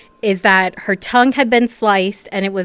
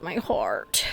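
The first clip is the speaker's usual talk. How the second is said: breathless whispered gasp; 4 semitones lower, 11 dB quieter than usual. Real, not acted. Shaken actor whispering to herself after a crying scene.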